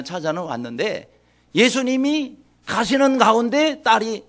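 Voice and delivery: usual speaking voice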